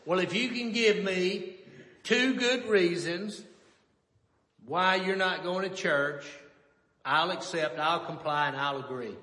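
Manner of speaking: lightly voiced mama laying down terms; measured mama voice, pausing between phrases. Mama answering her churchgoing son's refusal, mama voice. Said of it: "kinda said in that mama voice".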